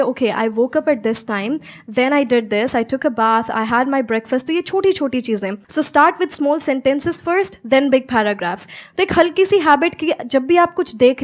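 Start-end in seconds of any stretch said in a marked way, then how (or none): 0.0-4.5 demo recap. Shown as a demonstration. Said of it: "पूरे दिन का एक रिकैप लीजिए". 5.5-8.7 slow teaching. Shown as a demonstration. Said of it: "teaching, very slow".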